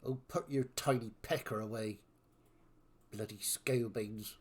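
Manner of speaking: lightly voiced West Country villain. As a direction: sneer it in a West Country accent. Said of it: "doing a villain voice in West Country".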